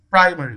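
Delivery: primary with PRI standing out; stress on first syllable. Shown as a demonstration. Teacher checks option D for stress, primary stressed on PRI.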